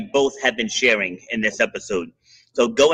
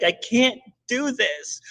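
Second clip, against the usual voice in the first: retold tearful plea, pitched way up; imitated sobbing; 10 semitones higher, 4 dB quieter, slower than usual. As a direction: imitate a sobbing woman giving up, slowly. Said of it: "it sounds like she's sobbing".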